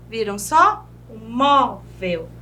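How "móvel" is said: "móvel" slow, split into mó, vel; penultimate stress. Shown as a demonstration. Teacher pointing out the penultimate syllable, "móvel" slowly separated. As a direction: stretch the mó of "móvel", lower pitched. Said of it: "essa é a penúltima".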